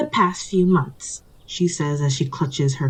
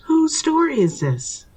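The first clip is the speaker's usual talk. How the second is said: indignant; 10 semitones higher than usual. Acted. Storyteller cutting into the quarrel.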